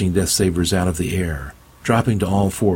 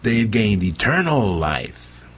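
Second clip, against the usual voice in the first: booming preacher; 4 semitones higher, much slower than usual. Acted. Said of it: "Bobson boomed".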